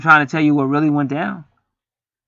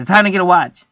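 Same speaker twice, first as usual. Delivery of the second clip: smart-ass retort; 4 semitones higher, 5 dB louder than usual. Retold or imitated. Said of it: "if somebody says".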